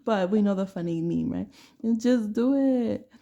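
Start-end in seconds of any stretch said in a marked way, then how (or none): 1.8-3.1 a hint of the Nike ad voice, slow and punchy; lightly hammed-up slogan read. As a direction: say it like the slogan, slowed right down. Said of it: "Like, Nike".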